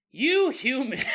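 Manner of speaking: a hint of a sneering alien; alien dad. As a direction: spit out humans with contempt.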